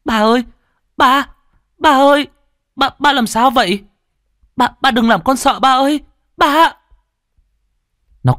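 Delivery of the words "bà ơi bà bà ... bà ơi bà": high, loud frantic calls to grandma; a terrified child shaking his unconscious parent; panicked crying out. A narrator's reading. Boy finds his father collapsed, cries out in panic. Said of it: "miệng thốt lên".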